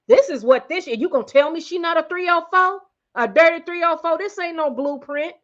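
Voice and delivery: rising heat as she lays into Kris; excited. Real, not acted. Vlogger riled up telling viewers about Kris, excited. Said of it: "I'm getting excited".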